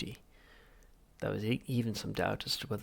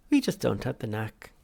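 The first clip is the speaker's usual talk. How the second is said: lightly cheery shrink; breezy, cheerful admission; cheerful Halfrunt; 7 dB louder than usual. Acted. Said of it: "said Halfront cheerfully".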